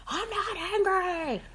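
high, slow sulky denial; mock denial. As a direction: stretch it out, pouting. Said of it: "It's that thing, like".

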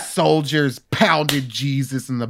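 slow, high breathy moaning; mock orgasm moan. Acted sex partner quote continues.

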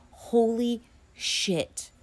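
stunned, slow hushed whisper; awed whisper. Real, not acted. Viewer reacting to her filmography, slow whisper. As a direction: breathe it out slowly.

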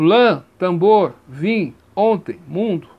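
lã, tambor, vim, ontem, mundo with resonant nasal vowels; word by word, nasal vowels in lã, tambor, vim, ontem, mundo; nasal vowel examples. Shown as a demonstration.

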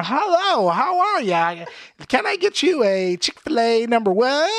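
high, sing-song imitation of a cashier's greeting; super-nice fast-food worker. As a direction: do a hammed-up, effeminate drive-thru hello. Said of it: "I can't even do it 'cause he has a gay accent".

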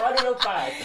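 voz aguda e animada, mostrando o pato; imitando a namorada. Retold or imitated. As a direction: imitate an excited girlfriend showing off a pet duck. (imitando a namorada empolgada com o pato)

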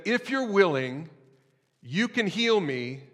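high, slow desperate plea; begging. Acted. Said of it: "begging to be healed".

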